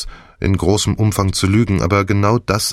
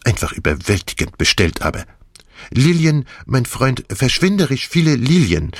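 higher, lively Belgian detective, theatrical; Poirot voice; 5 semitones higher than usual. Acted. Poirot gloats to the feverish Hastings, theatrical and higher. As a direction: play the gleeful plotting Belgian with big swings.

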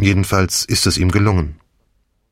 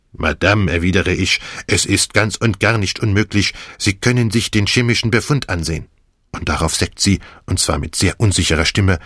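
Poirot voice; 3 semitones higher than usual. Acted. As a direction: play the gleeful plotting Belgian with big swings.

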